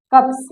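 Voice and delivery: कप्स with a crisp unvoiced s at the end; कप्स ending in a clean s, not z; demo s sound. Shown as a demonstration. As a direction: clip कप्स with a sharp hissed s. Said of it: "सा आ रहा है ना".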